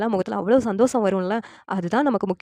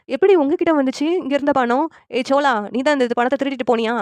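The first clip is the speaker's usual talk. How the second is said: mildly acted shock, higher and louder at first; accusing questioning; 5 semitones higher, 4 dB louder than usual. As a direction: confront him as a suspected thief. Owner accuses employee of theft.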